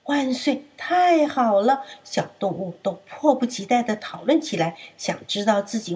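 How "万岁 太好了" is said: cheering. Acted. Animals cheering.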